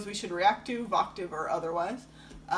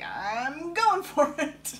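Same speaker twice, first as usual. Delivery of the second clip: bold and determined; 9 semitones higher, 4 dB louder, much slower than usual. Retold or imitated. Singer going for high note.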